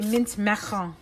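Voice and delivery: put-on Mint Macaron in a playful accent. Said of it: "saying that with an accent sounds more fun".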